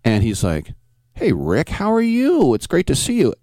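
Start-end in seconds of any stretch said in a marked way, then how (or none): 1.1-3.3 higher, imitating a put-on Chicano cholo accent; fake Cheech accent. Rick imitating Ricardo's greeting in a fake Cheech Chicano accent. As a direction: mimic an old friend's fake Cheech Chicano accent, pitched up. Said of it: "It was like this fake Cheech thing".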